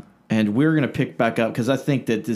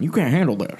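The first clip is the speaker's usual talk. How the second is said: put-on preacher voice, pitched up then falling; Ruckman; 5 semitones higher than usual. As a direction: parody a taunting preacher. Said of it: "here's my Ruckman impersonation".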